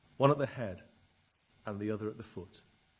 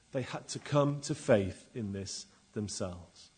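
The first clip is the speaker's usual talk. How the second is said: measured sermon voice building to full force; sermon delivery swelling in places; preaching; 4 semitones higher, 13 dB louder than usual. Acted. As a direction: preach it to the congregation. Preacher reading scripture and preaching.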